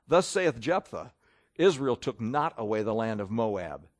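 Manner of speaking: measured King James Bible reading; lightly formal Bible reading voice; scripture reading. Acted. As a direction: read the old text steadily from the pulpit. Reads scripture aloud.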